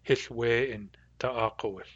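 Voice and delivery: Hith we in ta'akowith with the hearsay we in; Nuu-chah-nulth phrase. Shown as a demonstration. Teacher reporting Hith we in ta'akowith as hearsay. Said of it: "To me, it's hearsay".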